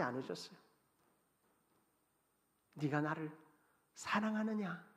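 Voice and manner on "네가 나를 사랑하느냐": soft tender question. Acted. Jesus asks again.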